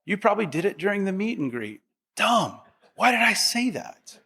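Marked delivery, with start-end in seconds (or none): 2.2-4.2 higher, laughing at his own blunder; laughing self-scolding. Retold or imitated. Peter laughs off his own blunder, mock self-scolding. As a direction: groan at yourself with a laugh. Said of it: "He's kicking himself".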